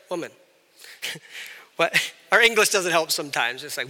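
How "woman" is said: soft, low single word; softened, respectful address; gentle address. Shown as a demonstration. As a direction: say it kindly and quietly. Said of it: "That's like".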